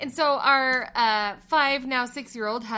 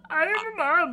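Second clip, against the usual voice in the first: laughing; 7 semitones higher than usual. Retold or imitated. Laughing while mimicking.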